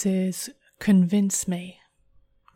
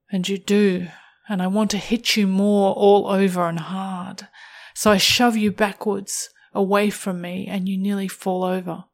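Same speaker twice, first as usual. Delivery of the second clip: erotic story narration; 4 dB louder, faster than usual. A narrator's reading.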